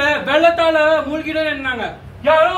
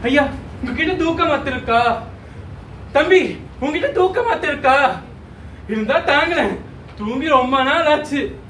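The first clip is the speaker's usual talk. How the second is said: mildly acted begging; pleading. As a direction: plead wearily with passers-by for help. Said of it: "கெஞ்சிக் கொண்டே இருக்கின்றான்".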